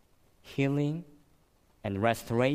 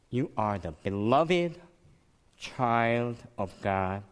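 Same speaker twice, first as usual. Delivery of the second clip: heartfelt blessing; slower than usual. Retold or imitated. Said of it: "he felt his heart warm".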